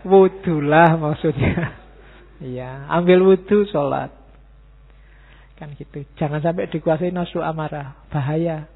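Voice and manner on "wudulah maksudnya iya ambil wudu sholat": emphatic correction. Real, not acted. Punchline after joke about rolling.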